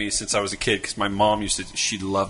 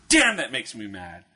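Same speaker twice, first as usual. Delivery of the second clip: mock angry boy. Marty complaining about Turd Street to teacher, mock angry. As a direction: play a cross little boy's outburst. Boy's angry catchphrase in a joke.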